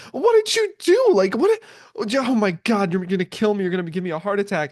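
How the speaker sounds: high, loud panicked mother's voice; freaking-out mom. Retold or imitated. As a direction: play the frantic mom scolding her son. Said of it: "she's freaking out the entire time".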